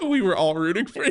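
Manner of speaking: high, helpless laughing delivery; laughing teasing. Real, not acted. Hosts mock the failed accent, laughing hard. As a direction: tease through big laughs.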